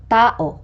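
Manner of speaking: Tao with stress on the opening Ta-; penultimate stress. Shown as a demonstration. Teacher showing penultimate stress, first syllable stressed in Tao. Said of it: "given to the syllable before the last".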